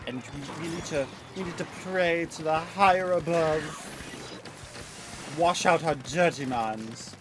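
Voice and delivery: lightly voiced prim, shocked nun; hint of a scandalized nun praying. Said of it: "that's what I would sound like as a scandalized nun".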